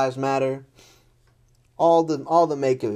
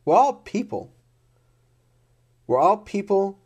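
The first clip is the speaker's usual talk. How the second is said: high, raised cry that we are all people; impassioned plea; 8 semitones higher than usual. Real, not acted. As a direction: plead it out, voice rising high. Impassioned rant about humanity.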